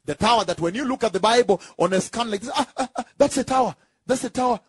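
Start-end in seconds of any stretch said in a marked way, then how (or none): 2.5-4.6 amazed discovery. Acted. Acts out someone amazed at scan.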